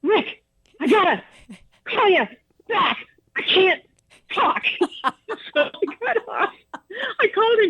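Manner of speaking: high, breaking through laughter; laughing too hard. Retold or imitated. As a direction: barely get the words out between laughs. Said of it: "I finally, like".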